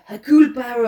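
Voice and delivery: a touch of mock-earnest French detective; sincere Poirot. Host introducing Poirot, mock sincere. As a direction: say his name with grave sincerity. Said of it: "now he's being very, um, sincere".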